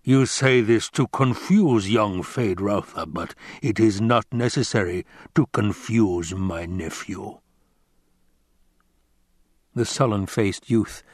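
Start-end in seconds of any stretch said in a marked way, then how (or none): 0.0-7.4 lightly voiced rumbling villain; mild, measured rebuke from a master; a hint of pompous rumble; Baron Vladimir Harkonnen. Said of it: "the Baron rumbled".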